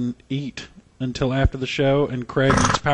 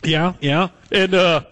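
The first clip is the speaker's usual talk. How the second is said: higher, eager mock fanboy voice; acted-out pushy admirer, pitched up; imitated drive-thru fan; 4 semitones higher than usual. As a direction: gush as the delighted restaurant guy. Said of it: "That's the guy".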